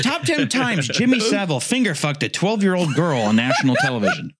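high, put-on countdown announcer; high mock announcer fighting laughter; Watch Mojo UK narrator. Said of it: "Welcome to Watch Mojo U K".

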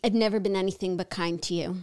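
low mock-British brother voice; put-on British accent. Brother pleads his kindness, mock British accent. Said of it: "Our accents?".

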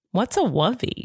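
"wovey" with W in place of L; puzzled toddler question, saying "wovey" for lovey; little-kid "wovey", rising at the end; child's mispronunciation. Retold or imitated. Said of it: "He goes".

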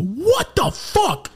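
very high, loud and drawn out slowly; retold jaw-drop; shocked disbelief. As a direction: stretch it out in total shock. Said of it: "And I go".

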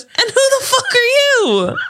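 mock-furious movie threat; mock furious yell. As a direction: scream the threat, cracking up. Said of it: "And she goes".

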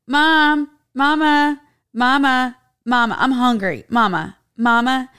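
put-on high, loud child nagging mama; whiny kid voice. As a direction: whine it like a hungry toddler. Kid whining for mom at dawn.

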